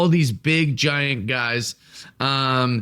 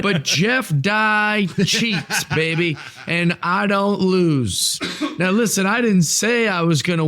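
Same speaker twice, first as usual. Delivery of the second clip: heel promo; 4 semitones higher than usual. Pretend. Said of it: "I'm the heel".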